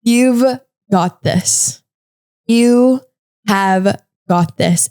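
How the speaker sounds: slow, spaced-out reassurance; sincere encouragement. Real, not acted. Podcaster ending by encouraging the listener, slow and sincere. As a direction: say it slowly, weighing each word. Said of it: "just saying that to you".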